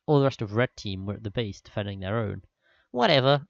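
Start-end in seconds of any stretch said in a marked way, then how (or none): 2.9-3.5 smirking. A narrator's reading. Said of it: "he said with a smirk".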